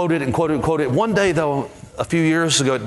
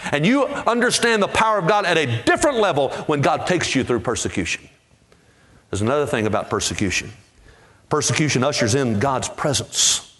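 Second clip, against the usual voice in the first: usual speaking voice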